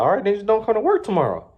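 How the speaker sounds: high, fast, snippy dare; mock threatening boss. Manager daring Jeff to skip work, mock snippy. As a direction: rattle off the boss's threat.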